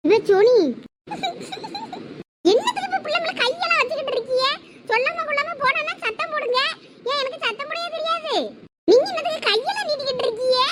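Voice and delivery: high-pitched furious rebuke; wife berating husband, high and furious; angry scolding. Acted. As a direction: tear into him for raising his hand. Mother scolds husband for hitting.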